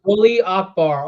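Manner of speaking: Rully Akbar said slowly and clearly, spelling it out. Real, not acted. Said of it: "What is it?".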